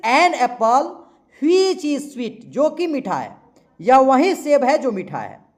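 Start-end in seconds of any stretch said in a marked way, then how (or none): 0.1-2.5 very slow, word by word; slow dictation. Shown as a demonstration. Teacher dictating the full example slowly. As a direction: stretch every word. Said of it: "यहां पर".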